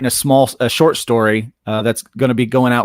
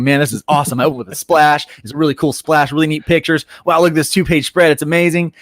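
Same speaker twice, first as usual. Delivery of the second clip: excited self-praise; 4 semitones higher than usual. Retold or imitated. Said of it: "be thinking".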